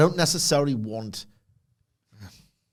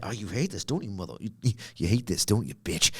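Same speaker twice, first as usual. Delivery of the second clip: inner hater voice; 2 semitones lower, 5 dB quieter than usual. Retold or imitated. Fan voicing his inner hater, mildly taunting. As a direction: taunt yourself, half-whispered. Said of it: "my inner hater, he was saying".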